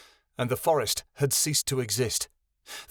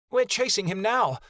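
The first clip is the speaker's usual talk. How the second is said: high, small fairy voice speaking of herself; a tiny high fairy, hissing; fairy Vixen voice; 9 semitones higher than usual. Acted.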